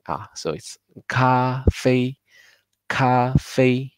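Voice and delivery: 咖啡 with both syllables high and level; Mandarin demo. Shown as a demonstration. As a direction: model 咖啡 carefully. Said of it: "sound translation from the English word".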